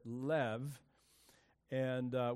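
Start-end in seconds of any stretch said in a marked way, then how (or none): 0.0-0.8 "lev" as one syllable with silent G; pronunciation demo. Shown as a demonstration. Preacher shows how he pronounces an ancient root, "lev" with a V sound. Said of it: "I would pronounce it".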